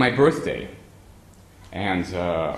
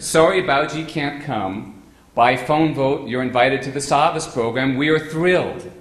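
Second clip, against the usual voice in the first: slow, louder, lifted reading of good news; reading the telegram aloud; 4 semitones higher, 5 dB louder than usual. Retold or imitated. Reading out the telegram invitation, slow and delighted. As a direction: savour every word of the telegram.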